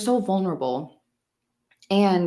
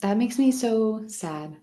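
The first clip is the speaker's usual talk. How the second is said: whispering; 4 semitones higher than usual. Real, not acted. Moved by the topic, whispering.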